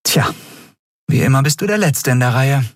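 erhobene, ernste Warnstimme; ernste Kapitänin. Acted. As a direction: eindringlich warnen, mit Gewicht. (Kapitänin warnt Miko ernst, höher gesprochen)

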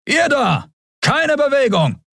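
high, barked command to halt; soldier's shout. Acted. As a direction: yell it at the intruders to freeze. Enemy soldiers confront the heroes.

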